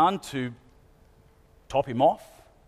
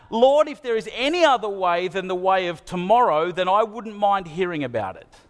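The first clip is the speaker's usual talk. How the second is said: Jesus praying; 3 semitones higher than usual. Retold or imitated. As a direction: beg God openly, a little raised. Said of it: "crying out".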